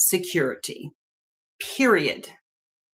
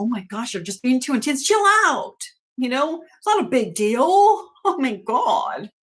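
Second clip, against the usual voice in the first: dismissive mock; 3 semitones higher than usual. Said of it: "Don't tell them".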